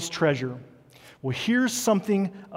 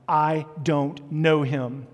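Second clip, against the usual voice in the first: slow, emphatic retold denial; much slower than usual. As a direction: draw out each word in firm denial.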